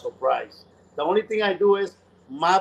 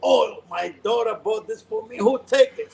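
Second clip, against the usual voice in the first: higher, louder retold complaint building to a demand; upset complaint; 6 semitones higher, 3 dB louder than usual. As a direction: demand back a gift from your daughter. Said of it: "you imagine how he was".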